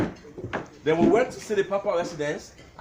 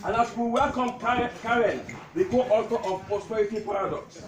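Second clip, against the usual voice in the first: measured recital, pausing between lines; comic tribute poem; 3 semitones higher than usual. Acted. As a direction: declaim witty verses to an amused crowd. Recites his poem to gathering.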